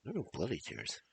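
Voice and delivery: loud, high, despairing cry; anguished lament. Acted. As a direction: wail over her brother's fate.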